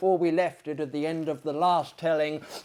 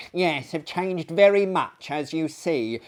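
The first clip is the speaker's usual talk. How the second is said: eccentric lunatic voice; 2 semitones higher, 4 dB louder than usual. Acted. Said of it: "here interrupted the gentleman".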